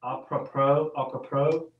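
"Apropos" ending in an open "oh", no s; silent final s. Shown as a demonstration. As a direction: say "apropos" like ah-pruh-POH. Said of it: "I think I said that right".

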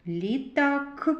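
"Літак" with a separated, released "к" at the end; final К singled out. Shown as a demonstration. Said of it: "Звуковий аналіз слова".

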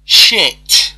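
loud, high burst of a curse; elated yelp. Real, not acted. Gamer still reeling from the win, elated yelp. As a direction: let it burst out in joy.

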